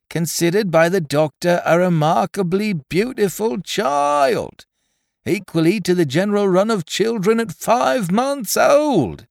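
high, loud, breathless shrieking. Acted. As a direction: shriek proud news into a deaf ear. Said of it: "shrieking these short sentences".

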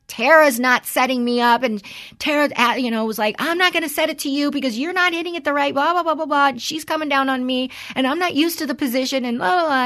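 high, worked-up imitation of a tearful complaint; mock distraught teen venting; Natalia crying, upset. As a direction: retell her upset rant, pitched high and rushing on. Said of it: "And she's crying".

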